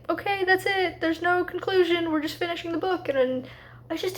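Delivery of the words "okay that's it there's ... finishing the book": mock book voice.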